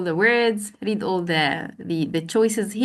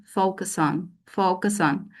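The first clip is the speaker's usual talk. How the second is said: "focus" hit on its first syllable, FO-cus on; stress demo; 2 semitones lower than usual. Shown as a demonstration. Trainer showing teachers where "focus" takes its stress. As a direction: lean on FO in "focus" and keep "on" light. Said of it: "the stress pattern".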